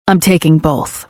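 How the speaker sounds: low male character voice. A narrator's reading. Ledger answers her, male voice.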